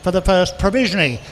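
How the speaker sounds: brisk, sing-song bid calling; auctioneer calling bids. Acted. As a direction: rattle off the bids to the room.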